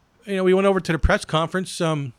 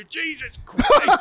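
drawn-out, higher mock cry of Jesus Christ; slow, higher hammed-up Jesus Christ; mock exclamation; 10 semitones higher, much slower than usual. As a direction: ham up the exclamation slowly. Acting out the J C nickname.

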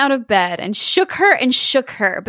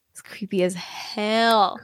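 whispering; 6 dB quieter, slower than usual. Real, not acted. Spooky comment, whispered.

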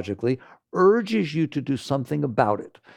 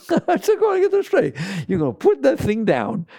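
much higher and louder, driving the point home; emphatic push; 8 semitones higher, 4 dB louder than usual. Real, not acted. Teacher pressing the smoker, loud and emphatic. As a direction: insist firmly, voice jumping way up.

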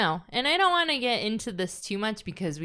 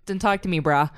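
dismissive; 4 dB louder than usual. Pretend. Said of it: "you would want to say it".

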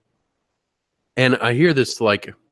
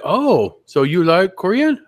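higher, slower, pleased shop-lady voice; light up in her voice; imitating the donut lady; 8 semitones higher, 4 dB louder, slower than usual. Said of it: "she's like".

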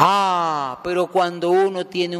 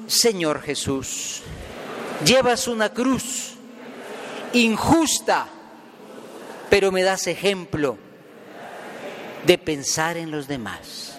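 leading a prayer. Shown as a demonstration. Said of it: "Digamos juntos".

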